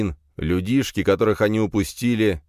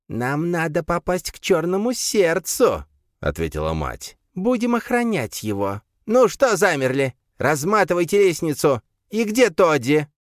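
commanding creature mother; 11 semitones higher than usual. A narrator's reading. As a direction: bark orders at sons. Mother gives orders.

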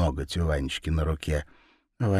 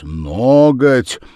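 plain reading voice

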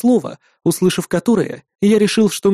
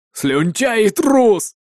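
higher, drawn-out scornful insult; abrupt contemptuous declaration; 6 semitones higher, much slower than usual. A narrator's reading. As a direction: spit out the insult slowly. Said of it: "вдруг заявил Арви". (презрительно, нараспев)

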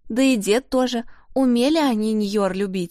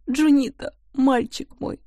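put-on high, keening lament for her lost boy; wailing; 6 semitones higher than usual. A narrator's reading. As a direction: cry his name out like a grieving mother. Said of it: "причитала она".

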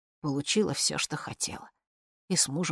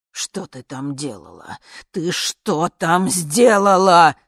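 slow, drawn-out howl that swells much louder; 2 semitones higher, 11 dB louder, slower than usual. Acted. Old dictator to the woman who came back, howling slowly. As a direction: wail the question out slowly. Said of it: "завыл диктатор".

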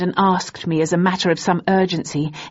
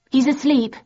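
curt, higher reply; short; 8 semitones higher than usual. A narrator's reading. Woman on phone brushing off caller, curtly. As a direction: clip it off briefly. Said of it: "she said shortly".

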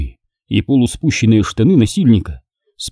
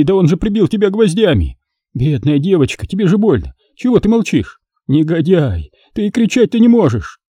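higher, fretful bewildered wailing; lamenting father; 7 semitones higher than usual. Acted. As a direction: fuss helplessly over her. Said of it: "причитал сердобольный отец".

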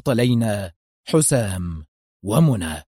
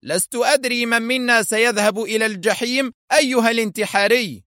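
high, lightly voiced smug villain; a hint of a gloating enemy; mild villain taunt; 10 semitones higher than usual. A narrator's reading. Foster taunting Hossam through loudspeakers, lightly voiced. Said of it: "أتاه صوت فوستر يقول".

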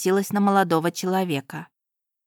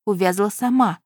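ordinary delivery

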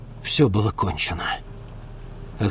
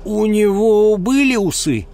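raised slow inserted question; eager lad; 10 semitones higher, 5 dB louder, slower than usual. Acted. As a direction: chip in innocently. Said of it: "вставил Унельм".

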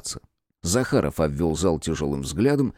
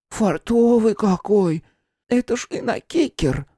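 put-on slow, high, mumbling old woman; toothless mumble; 14 semitones higher, 3 dB louder, slower than usual. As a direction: mumble it through no teeth. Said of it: "Финка прошамкала".

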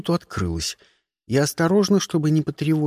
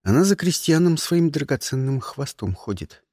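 plain reading voice

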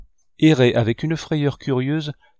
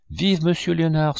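schoolchildren cheering; 6 semitones higher than usual. A narrator's reading. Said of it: "se mit à crier l'école".

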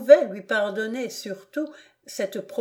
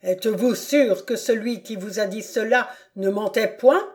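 menacing suspicion. Acted. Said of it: "continua-t-il en appuyant son poing crispé".

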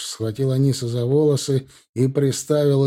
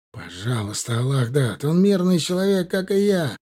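crying out; 4 semitones higher than usual. Acted. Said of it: "крикнул Ихаб".

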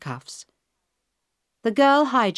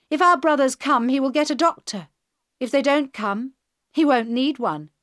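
put-on higher, louder taunting young woman; girl hijacker, mocking; 7 semitones higher, 3 dB louder than usual. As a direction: sneer it at him like a cocky hijacker.

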